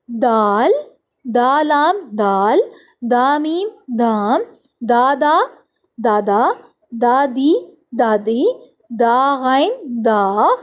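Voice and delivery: put-on slow, stretched-out syllables for young learners; teacher's measured read-along chant; spelling drill. Shown as a demonstration. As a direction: sound out each letter, then draw out the blended word. Reading drill for children.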